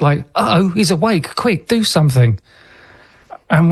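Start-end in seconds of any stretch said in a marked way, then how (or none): 0.3-2.4 lightly acted startled alarm, pitched up; mock shock. Greys spot the abductee awake, mildly acted shock. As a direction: imitate a shocked reaction, without raising the volume. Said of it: "they're suddenly shocked".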